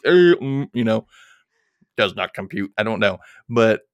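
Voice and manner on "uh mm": imitating tongue-tied fumbling; awkward stammering. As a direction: stammer wordless noises awkwardly. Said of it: "I'm so awkward when talking to people".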